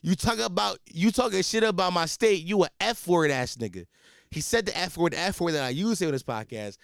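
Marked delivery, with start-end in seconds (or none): 0.0-3.9 mock angry caller. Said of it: "He says".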